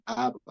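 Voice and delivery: "Abba" said ÁB-ba, first syllable stressed; wrong stress on first A. Shown as a demonstration. Teacher shows the mispronunciation to avoid, "Abba" stressed as ÁB-ba. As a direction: put the accent on the first A of "Abba". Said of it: "Primero que no se dice Abba".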